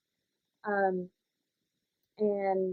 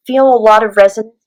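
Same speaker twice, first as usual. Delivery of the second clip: head voice; 18 dB louder than usual. Shown as a demonstration. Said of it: "your head voice".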